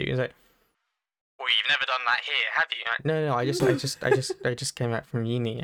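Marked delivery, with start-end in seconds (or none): 1.4-2.8 accusing receptionist. Retold or imitated. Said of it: "more and more aggressive". 3.1-5.6 anxious caller. Retold or imitated. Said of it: "anxiety rising".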